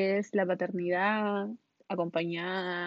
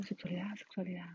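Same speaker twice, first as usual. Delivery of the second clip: much softer, flat repeated "Sexualidad"; deadpan repeat; 3 semitones lower, 13 dB quieter than usual. Retold or imitated. Mocking her own answer, soft and deadpan. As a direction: mumble it twice, deadpan. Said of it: "y así como".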